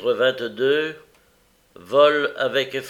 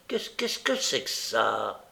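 slow, halting startled question; taken-aback stammer; surprised exclamation; 3 dB quieter than usual. A narrator's reading. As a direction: stumble over the words in surprise. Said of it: "cette exclamation de surprise".

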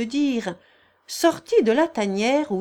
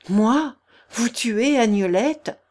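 stunned disbelief; 3 semitones higher, 5 dB louder, slower than usual. Acted. Thibault stunned by her fear.

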